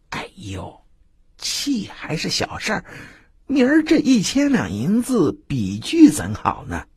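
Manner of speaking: high, hushed anxious voice; a touch of panic; worried fretting. Acted. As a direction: wring your hands over the debt. Wu Er frets over his debt.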